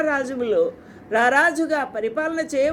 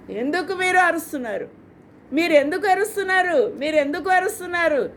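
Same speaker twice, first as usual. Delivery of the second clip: put-on higher-pitched scolding of the shouting children; mild mock rebuke, pitched up; rebuking; 4 semitones higher, faster than usual. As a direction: elders telling the crowd off, go away. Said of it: "అని గద్దిస్తుంటే".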